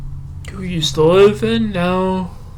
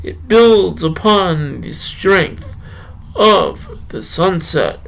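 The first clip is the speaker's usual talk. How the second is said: measured poetry recitation, slowing near the end; unhurried spoken-word delivery; poem reading. Acted. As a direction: read the poem with feeling, lingering on lines. Reads his poem aloud.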